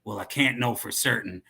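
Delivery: lightly put-on cowboy accent. Dealer explaining his client, light cowboy accent. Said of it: "Now I'm giving him a cowboy accent too".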